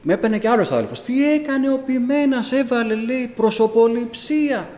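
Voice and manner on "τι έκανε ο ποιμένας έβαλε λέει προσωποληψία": higher, slow indignant accusation; accusing brother. Retold or imitated. Another brother accusing the pastor of favoritism, higher and indignant. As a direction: spit out the charge of favoritism.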